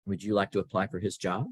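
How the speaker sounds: calmly and evenly. Retold or imitated. Boss to young employee asking for a raise, calm. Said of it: "she just very calmly said".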